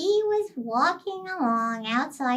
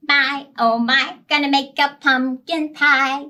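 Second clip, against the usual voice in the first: a hint of a doting Monkey, louder; lightly voiced Monkey; 3 semitones higher, 6 dB louder than usual. Monkey greets his beloved pumpkin, lightly sung. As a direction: gently coo to the pumpkin as Monkey. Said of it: "He said".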